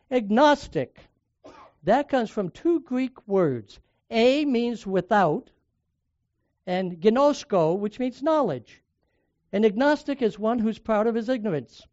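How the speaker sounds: firm retold classroom comeback; emphatic rebuttal. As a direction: spell out the Greek roots with force. Piping up to defend the nun.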